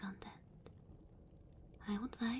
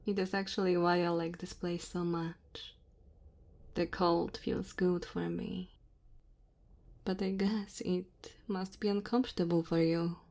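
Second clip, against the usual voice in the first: lightly voiced dragon woman, louder, measured delivery; 10 dB louder than usual. Dragon woman to her cold guest in the cave, gently apologetic. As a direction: play an apologetic dragon host at speaking volume.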